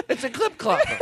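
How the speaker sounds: high nasal car-buff voice; gushing car collector voice; Jay Leno impression. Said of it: "Jay's like".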